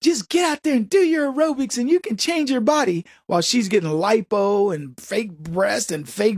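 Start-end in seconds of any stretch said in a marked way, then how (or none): 0.0-3.1 high, peppy aerobics coach; fitness guru pep. Retold or imitated. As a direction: sell it like an infomercial coach. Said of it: "Susan was telling her".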